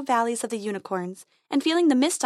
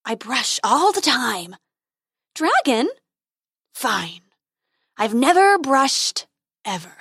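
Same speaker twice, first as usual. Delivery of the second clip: dragon voice; 2 semitones higher, 5 dB louder, slower than usual. A narrator's reading. Dragon admits.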